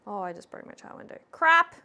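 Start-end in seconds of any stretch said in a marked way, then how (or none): 1.3-1.8 exasperated. Real, not acted. Broke the chat window.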